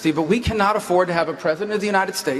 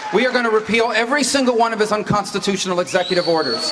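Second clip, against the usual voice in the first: stump-speech shout; rally shout; 2 semitones higher than usual. Real, not acted. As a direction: punch it to the crowd. Debate stump speech, shouting applause line.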